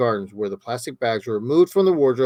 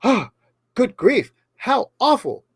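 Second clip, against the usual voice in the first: high, hammed-up posh English voice; a light attempt at an English accent; mock English gent; 10 semitones higher, 4 dB louder than usual.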